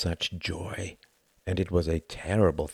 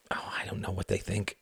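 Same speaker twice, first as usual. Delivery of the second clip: breathy trailing whisper; soft unvoiced aside, giving up; 8 dB quieter than usual. A narrator's reading. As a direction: let the thought die into a whisper. Palaret trails off, unsure.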